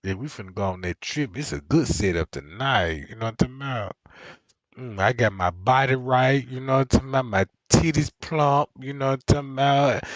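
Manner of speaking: scheming friend voice. Retold or imitated. Voicing the friend's plan.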